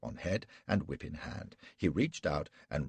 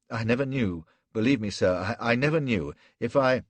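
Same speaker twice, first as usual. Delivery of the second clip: desperate pleading; 6 semitones higher, 9 dB louder than usual. Acted. Flashman begs Gul, terrified.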